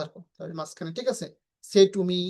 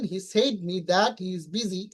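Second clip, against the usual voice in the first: reads the wrong sentence out slowly; teacher spelling out a wrong sentence for the class, slowly; slow wrong example; 3 dB quieter, much slower than usual. Shown as a demonstration. Slow, deliberate classroom reading. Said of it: "এই বাক্যটা কিন্তু ভুল".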